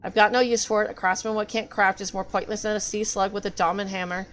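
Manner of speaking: a lightly voiced, bitter old craftsman muttering to himself; grumbling sea craftsman. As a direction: play a self-pitying artisan sulking on the ocean floor. Reads gruff NPC craftsman's lines.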